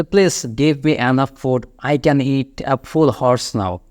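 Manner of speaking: every word slow and spaced; drawn-out teaching read; slow model sentence. Shown as a demonstration. Teacher modelling a British idiom, slow and clear. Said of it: "এই শব্দটা use করে যে".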